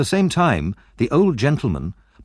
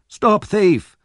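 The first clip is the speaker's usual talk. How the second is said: high-pitched calling out; shouted; 10 semitones higher, 4 dB louder than usual. A narrator's reading. Boys joining the chase after Oliver, shouting. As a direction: raise the alarm in a high call. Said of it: "they also shouted".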